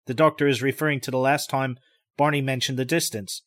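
plain reading voice

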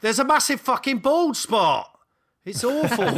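high, loud mock wail over the bald spot; loud, hammed-up despair; mock anguished client. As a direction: ham up the horror at the haircut.

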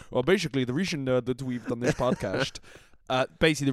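put-on light, playful Dutch accent. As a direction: Dutch English, like the football manager. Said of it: "I'm just gonna start talking in a Dutch accent".

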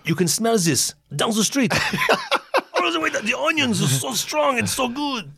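high, slow, savoring compliment with a laugh; chef's praise. Retold or imitated. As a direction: relish every word like tasting it. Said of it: "he goes".

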